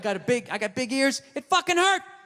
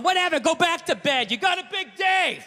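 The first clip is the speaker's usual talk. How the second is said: sarcastic; 5 semitones higher than usual. Retold or imitated. Sarcastic parting shot.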